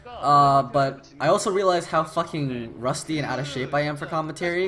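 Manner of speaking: winded caster, short of breath. Real, not acted. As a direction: speak while catching your breath. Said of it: "'cause I am out of breath".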